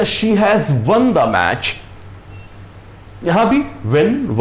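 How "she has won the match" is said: very slow, word by word; slow example read. Shown as a demonstration. Teacher showing the perfect tense example, very slow. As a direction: spell the sentence out slowly for learners. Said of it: "या".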